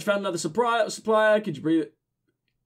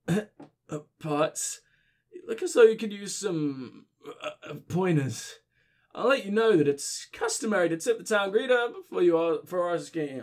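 put-on drunk voice. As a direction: mumble like a boozy greeter. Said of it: "giving my drunk voice".

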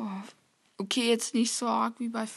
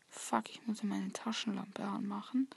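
whispering; 2 semitones lower, 7 dB quieter than usual. Real, not acted. Whispered during horror game.

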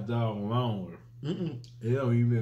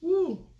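whooping from spicy heat; loud high whoop; 5 dB louder than usual. Real, not acted. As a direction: let out a high woo. Mouth burning from hot food.

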